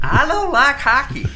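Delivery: high, squeaky mock Canadian accent. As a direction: put on a silly Canadian accent. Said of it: "speaking a Canadian accent?".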